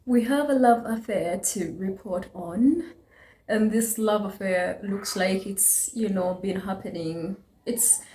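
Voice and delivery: hushed gossip. Acted. Teasing gossip about a love affair.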